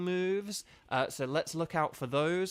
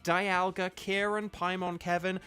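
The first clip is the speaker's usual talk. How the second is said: game show host; 5 semitones higher, much slower than usual. Pretend. Calling the team like a game show.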